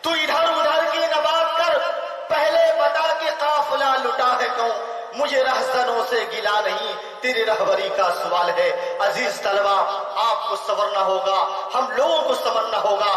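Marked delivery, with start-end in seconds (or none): 0.0-8.1 poetry recitation. Acted. Opens reciting a couplet.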